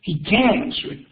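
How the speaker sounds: "can" as can't with the T dropped; silent-T negative. Shown as a demonstration. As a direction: open the mouth for A, say E in "can", no T. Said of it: "ahí no me sonó la T".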